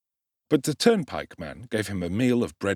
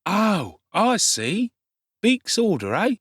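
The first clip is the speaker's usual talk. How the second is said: higher, louder sly urchin voice; knowing street boy; 11 semitones higher, 4 dB louder, slower than usual. A narrator's reading. Street boy guessing Oliver fled a magistrate, sly. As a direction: wink at him knowingly.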